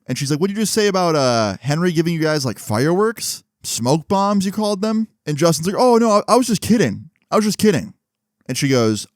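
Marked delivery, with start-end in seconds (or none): 0.4-5.1 high-pitched mock-teacher interrogation; teacher's probing question. Teacher retold confronting Justin. 5.8-8.0 high, louder mock-panicked denial; panicked backtracking. Justin retold backtracking when caught.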